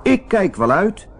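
high piglet voice, defiant; squeaky little pig saying no. Acted. Biggetje weigert de wolf. (hoog eigenwijs biggetje)

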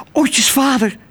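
high, urgent bird voice; panting sparrow. A narrator's reading. Exhausted sparrow reports a kidnapping to a passing starling, panting. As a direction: gasp it out high, as if winded. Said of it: "hijgde Toep".

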